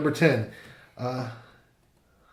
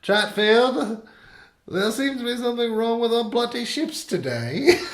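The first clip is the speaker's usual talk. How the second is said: higher-pitched imitation of a British admiral; hammed-up British understatement, close to laughing; mock British accent; 9 semitones higher than usual. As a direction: retell it in a put-on British voice.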